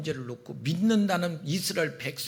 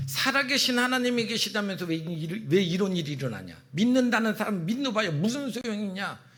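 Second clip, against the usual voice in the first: raised-pitch jeer at believers; mocking; 3 semitones higher than usual. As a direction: scoff at their faith. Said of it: "믿는 자들을 막 조롱했고요". (믿는 자들을 조롱하는 말투)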